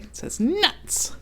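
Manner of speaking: slow whispered read; slow hushed reading. Real, not acted. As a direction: hush it out slowly.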